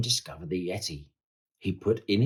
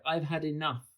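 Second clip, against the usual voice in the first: high-pitched, understated despair; exhausted cry; 6 semitones higher, 4 dB quieter than usual. A narrator's reading. George has had enough of climbing, mild exhausted cry. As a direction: give up with a raised, tired voice. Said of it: "he cried".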